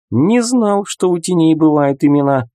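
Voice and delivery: high-pitched, lightly sarcastic remark; scoffing. A narrator's reading. Narrator needling the shadow about her name, mildly scoffing. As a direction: feign surprise with a touch of scorn. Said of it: "фыркнул я".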